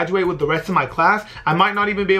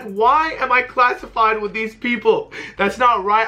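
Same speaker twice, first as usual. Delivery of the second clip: indignant disbelief; 5 semitones higher, slower than usual. Retold or imitated. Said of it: "I was like".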